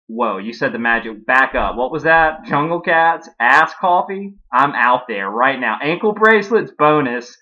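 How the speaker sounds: eager, punchy mock excitement; excited. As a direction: jump at it like a thrilling offer. A singer excited about the coffee.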